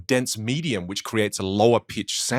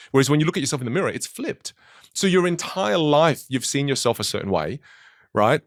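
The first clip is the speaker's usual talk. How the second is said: ordinary talk, nothing marked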